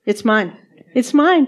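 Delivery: retold glee, rising on the repeat; joyful claiming.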